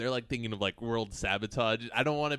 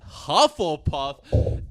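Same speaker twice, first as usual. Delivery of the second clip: surprised; 5 semitones higher, 12 dB louder, much slower than usual. Real, not acted. Surprised at result.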